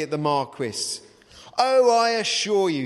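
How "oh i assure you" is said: louder, insistent assurance; earnest. A narrator's reading. Sim assuring the doubtful gentleman, loudly earnest. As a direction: press it like you mean every word. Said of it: "said Sim earnestly".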